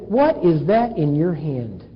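slow, low, deliberate question; God's question. Acted. God asks Moses about his hand, slow low question. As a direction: ask it weightily, word by word.

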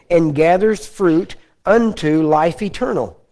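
slow, weighty Bible reading voice; measured scripture recital for the congregation. Acted. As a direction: read the verse slowly and solemnly, lingering on each phrase. Reads scripture slowly.

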